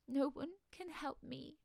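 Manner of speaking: high, slow, tearful wail; tearful mermaid. A narrator's reading. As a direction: play a crying mermaid, pitched high. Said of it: "She was crying her heart out".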